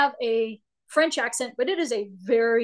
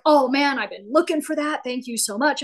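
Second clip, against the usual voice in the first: acted grateful excitement; 2 semitones higher than usual. Acted grateful reply to a tip.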